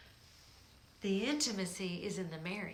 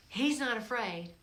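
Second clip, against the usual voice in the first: firm declaration. Shown as a demonstration. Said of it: "repeats the line, louder".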